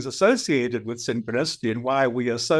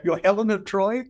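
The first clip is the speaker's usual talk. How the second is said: higher, incredulous rising question; sceptical disbelief; 7 semitones higher than usual. Retold or imitated. To the feisty lady on the plane, in disbelief. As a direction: doubt every word she just said. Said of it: "look at her with absolute sca".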